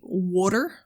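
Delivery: put-on "water" in a New Jersey accent. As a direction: imitate a New Jersey husband saying "water". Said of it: "so he'll say".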